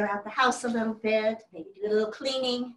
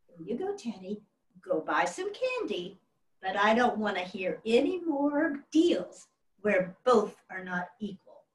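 gentle father. Retold or imitated. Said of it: "as gentle as leading a lamb".

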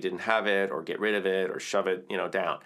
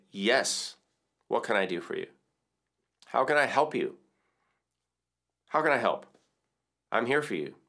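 gentle reassuring reply. Pretend. You answering the needy emotion, gently reassuring. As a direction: answer like comforting a child. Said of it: "And then you say".

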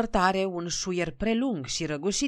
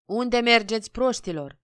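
higher, louder scolding shout; bellowing; 6 semitones higher, 5 dB louder than usual. A narrator's reading. Conductor yelling at bewildered peasants, bellowing. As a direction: holler at people going the wrong way. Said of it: "răcni conductorul".

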